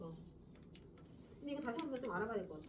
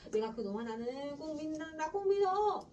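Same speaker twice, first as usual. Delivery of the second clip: insistent grandfather; 4 semitones higher than usual. Acted. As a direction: swear by the grandson. Grandfather declaring trust.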